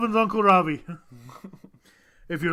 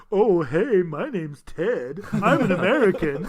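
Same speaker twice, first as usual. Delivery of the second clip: mock American; slower than usual. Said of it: "do you think they ever be like".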